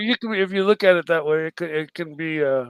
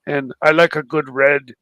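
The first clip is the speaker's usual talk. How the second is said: low, measured wine-connoisseur voice; Ocean; 5 semitones lower than usual. Acted. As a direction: muse on wine in a lowered put-on voice. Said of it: "You can do an Ocean".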